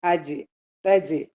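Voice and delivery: അജ്, തജ് with j stopped promptly; shidda stop. Shown as a demonstration. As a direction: cut ജ് short in അജ്, തജ്, no breath. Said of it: "ഇത് ഷിദ്ദയുടെ letter ആണ്".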